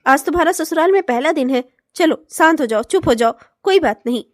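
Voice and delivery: calm her down gently; soothing. Acted. Husband calming crying bride.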